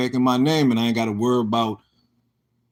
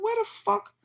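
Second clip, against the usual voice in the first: retold shock; 7 dB quieter than usual. Retold moment of finding the title missing.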